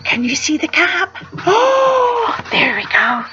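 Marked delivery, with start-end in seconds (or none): 1.5-2.4 high surprised oh; a delighted little discovery; bright squeal of discovery. Real, not acted. Reader reacting to picture.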